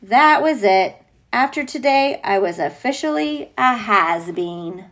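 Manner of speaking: put-on reading a picture book aloud to a child; steady storybook telling; story narration. A narrator's reading.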